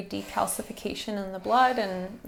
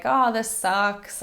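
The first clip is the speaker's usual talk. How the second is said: whiny ego voice; 5 dB louder, much slower than usual. Retold or imitated. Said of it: "it'll often say things like".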